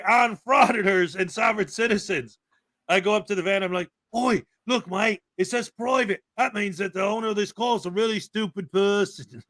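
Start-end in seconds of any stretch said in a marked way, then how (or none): 4.2-9.4 playful Australian accent impression; Steve Irwin. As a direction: put on a mock Aussie wildlife-host voice. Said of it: "did a Steve Irwin impersonation".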